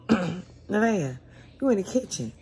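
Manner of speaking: mother calling up to the kitchen; calling the daughter. Retold or imitated. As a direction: call her name up to the kitchen.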